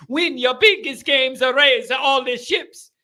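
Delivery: slow lilting Italian-accented win your biggest games. Shown as a demonstration. Host repeating his motto in a mock Italian lilt. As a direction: say it like an Italian chef. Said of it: "sound like an Italian".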